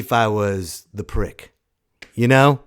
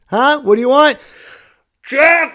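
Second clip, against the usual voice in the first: mock deaf shouting; 10 dB louder than usual. Acting out not hearing.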